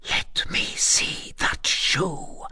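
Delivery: slow, high whisper; quivering. A narrator's reading. Gypsy asks to see the shoe, quivering whisper.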